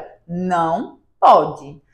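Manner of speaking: slow, firm parental "olha, não pode". Shown as a demonstration. Mother demonstrating to parents how to tell a child no, firm. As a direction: set the limit, calm and unbending. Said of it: "você vai precisar ser firme".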